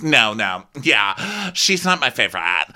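mock petulant grumbling; bitchy griping. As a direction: imitate a guest griping away. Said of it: "he's bitching to Kyle".

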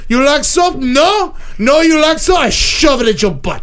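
lightly voiced dim caveman, talking about himself; a hint of a brute barbarian making threats; barbarian Croc. A host playing Croc lightly as a dumb brute, telling the panel his rule on smelly people. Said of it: "Croc is now subbing in".

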